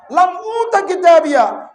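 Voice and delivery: crying out. Acted. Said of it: "চিৎকার দিয়ে বলবে".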